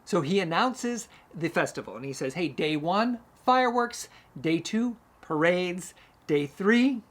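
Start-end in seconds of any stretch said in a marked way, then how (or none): 2.4-7.0 building announcement, each day higher and louder; herald's rising proclamation; announcing. Retold or imitated. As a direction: proclaim the festival line by line, building up. King announcing festival, rising excitement.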